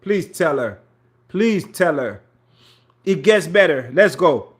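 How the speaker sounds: talking while bent over. Real, not acted. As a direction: voice squeezed from bending over. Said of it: "I'm bent over a little bit".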